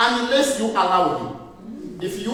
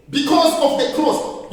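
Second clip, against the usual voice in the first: higher, slow and firm; bold prayer; 4 semitones higher than usual. Shown as a demonstration. Preacher showing the right prayer: slow, high, firm. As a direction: declare it slowly with authority. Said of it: "this is how you pray".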